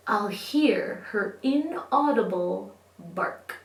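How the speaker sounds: lilting, expressive verse, slowing into the last line; children's poem reading. A narrator's reading. Teacher reading a lost invisible puppy poem, playful storytelling. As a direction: read the poem to kids with playful regret.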